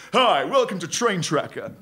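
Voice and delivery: slow, swaggering automated bloke; brash male robot. Retold or imitated. Male phone robot greeting callers, slow brash swagger. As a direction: swagger into it like cyber Clarkson. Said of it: "This is how he goes".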